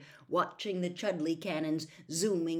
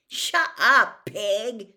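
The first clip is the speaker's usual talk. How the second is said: much louder, higher shout; irritated shout; 6 semitones higher, 14 dB louder, much slower than usual. Acted. Ron yells at twittering owl.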